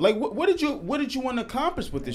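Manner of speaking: loud, high indignant outburst; outraged. Real, not acted. Podcaster furious at the man filming a breakdown, loud and high. Outrage at the forty-year-old filmer.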